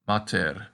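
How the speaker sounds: "mater" slowly, long ah as in father; Latin demo. Shown as a demonstration. Teacher models mater for the class. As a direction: draw out "mater" softly. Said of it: "our practice word is the word for mother".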